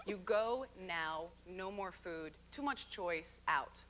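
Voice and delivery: a lightly put-on Japanese accent, slow and curt; the sushi chef throwing her out, in a mild Japanese accent. Retelling how the chef kicked her out, with a light Japanese accent. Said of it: "Did you like my Japanese accent?".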